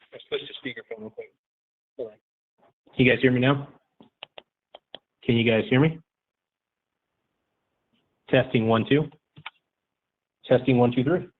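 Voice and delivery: speakerphone audio. Real, not acted. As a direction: through a phone speaker. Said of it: "see what it sounds like on speakerphone".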